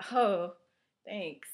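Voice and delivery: mildly nervous, hesitant thanks; a touch of panic, with pauses between words. Acted. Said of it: "looked down at my overgarment nervously".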